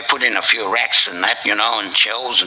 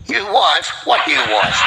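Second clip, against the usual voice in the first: mock bewilderment; 7 semitones higher than usual. Old man denies having wife.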